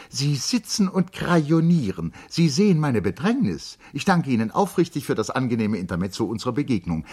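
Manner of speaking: high, loud indignant refusal; agitated. A narrator's reading. Charlotte refusing to receive the doctor, high and agitated. Charlotte hurrying the painter away.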